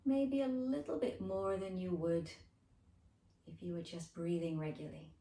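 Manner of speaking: unhurried guided breathing voice; gentle meditation lead with lingering phrases; guided relaxation. Acted.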